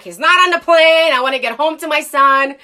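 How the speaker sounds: retold shout at the gate agent; screaming back. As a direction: yell back in frustration. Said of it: "screaming back".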